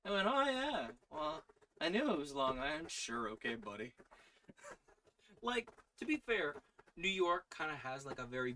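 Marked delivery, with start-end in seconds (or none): 0.3-2.9 a touch of Long Island twang, loud; mock Long Island brag; Long Island accent. Telling off someone who heard an accent, Long Island. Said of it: "Someone told me I had an accent".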